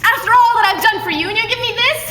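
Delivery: high, loud mock accusation; hammed-up intense outburst. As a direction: push the intensity up. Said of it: "with the same intensity".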